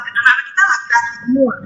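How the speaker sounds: choppy breaking-up call audio; glitching robot. Real, not acted. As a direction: voice cutting in and out. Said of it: "Suaranya putus-putus".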